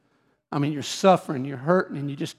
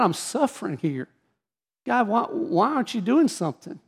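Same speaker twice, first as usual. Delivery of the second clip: desperate pleading prayer; 3 semitones higher than usual. Retold or imitated. Father retelling his prayer for his sick daughter, pleading. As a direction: beg God to fix it, voice rising. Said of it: "I remember crying out".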